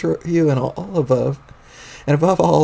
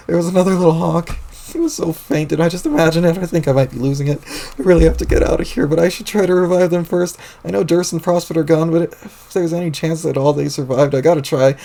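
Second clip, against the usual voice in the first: freaking out; 3 semitones higher than usual. Acted. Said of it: "still freaking out".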